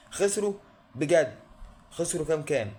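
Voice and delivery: sudden high-pitched "خسروا" in mock disbelief; mock disbelief, "خسروا" shot up high; mock surprise. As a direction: jump up high on "خسروا" as if shocked. Mock shock at the loss.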